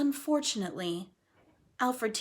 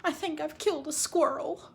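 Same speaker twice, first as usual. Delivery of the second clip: mild alarm; 7 semitones higher than usual. Acted. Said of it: "she said".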